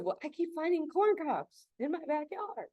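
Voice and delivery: mock Polish accent, pitched well up; Andrew's Polish accent. Neighbor insisting about corn cobs, in a mock Polish accent. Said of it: "I can't do his accent".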